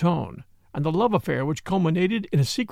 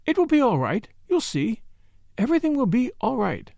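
higher, coaxing reassurance; soothing; 6 semitones higher than usual. A narrator's reading. Caroline reassures the weeping Ursula, soothing. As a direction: promise it gently, like to a child. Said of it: "she said soothingly".

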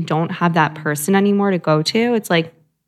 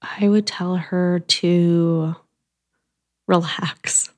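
whispered advice; much slower than usual. Real, not acted. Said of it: "advice to younger self, whispered".

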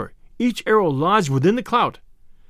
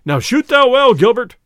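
loud, raised-pitch call; crying out; 5 semitones higher, 8 dB louder than usual. A narrator's reading. Sheriff urging his archer to shoot well, crying out. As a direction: call out loudly to urge him on. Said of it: "cried the sheriff".

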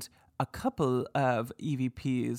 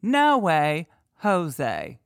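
mock EVP voice; 3 semitones higher, 4 dB louder, much slower than usual. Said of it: "Or D".

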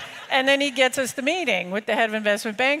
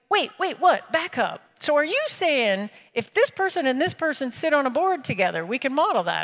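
higher, eager banker stopping the demo; mock excited banker; 3 semitones higher than usual. Banker interrupting the sales demo, mock excitement. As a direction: play the banker who just saw the feature.

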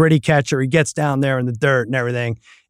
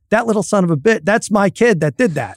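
higher, indignant dad telling off; mock exasperated rant; 6 semitones higher than usual. Dad retelling his fury at his son's payback, higher and heated. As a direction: vent like a dad who caught his kid's trick.

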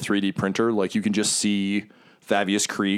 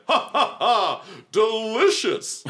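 high villain cackle, then slow savoring; gloating devil relishing a meal; Mahadi; 13 semitones higher, much slower than usual. Acted. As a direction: laugh wickedly and stretch the word out. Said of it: "you hear Mahadi be like".

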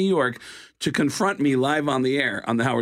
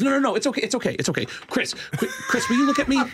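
tag; 10 semitones higher, faster than usual. Retold or imitated. Belzer pesters uninterested Walken.

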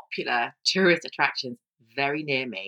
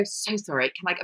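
passive-aggressive apology; 4 dB quieter than usual. Retold or imitated. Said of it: "I would go".

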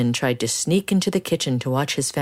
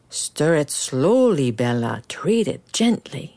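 gentle grandma. Acted.

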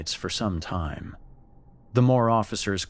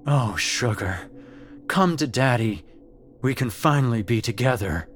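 father's voice; 4 semitones higher, 3 dB louder than usual. Acted. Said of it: "Her father's voice again".

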